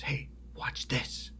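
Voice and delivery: soft, slow, hushed tone; conspiratorial aside. Retold or imitated. Friend leaning over to tip him off, hushed and conspiratorial.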